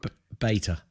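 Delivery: "beta" said as BAY-tuh; British beta. Shown as a demonstration. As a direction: say "beta" with a long A and no R. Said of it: "how do you guys say it?".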